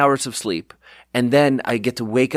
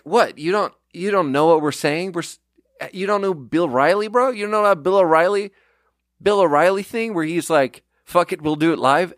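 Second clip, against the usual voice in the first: mock incredulous yell; 6 semitones higher than usual. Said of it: "they're screaming at me like".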